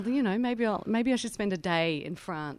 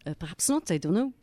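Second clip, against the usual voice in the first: French accent; 3 semitones lower than usual. Shown as a demonstration. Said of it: "give us a bit of the French".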